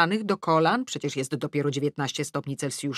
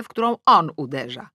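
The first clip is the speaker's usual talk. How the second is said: ordinary delivery, nothing marked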